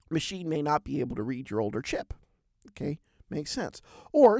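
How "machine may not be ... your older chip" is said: a hint of a British officer's accent; mild British accent, officer explaining. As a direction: lightly voice the officer in British English. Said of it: "in his British accent".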